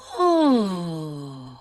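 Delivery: open-throated yawn sigh falling. Shown as a demonstration. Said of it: "make some yawn signs with that nice open throat".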